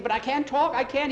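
high, loud desperate protest; frantic refusal. Acted. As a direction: plead that it's impossible, in acted panic. Frightened man refuses to talk.

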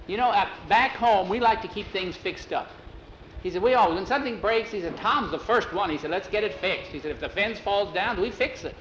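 keen, proud account of home habits; eager explaining. Acted. Jackie tells how things get fixed back home, eager.

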